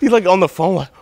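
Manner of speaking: real laughter through the words; laughing. Real, not acted. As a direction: giggle while reporting it. Laughing about the driver.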